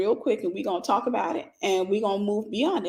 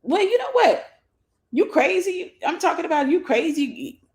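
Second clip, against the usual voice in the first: mock angry girlfriend; 6 semitones higher than usual. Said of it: "To get you to say something".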